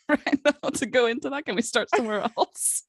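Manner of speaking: giggly. Real, not acted. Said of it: "I'm too giggly".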